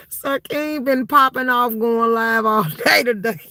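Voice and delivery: can barely get the words out for laughing; laughing hard. Real, not acted. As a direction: laugh through the words, almost crying. Laughing while talking.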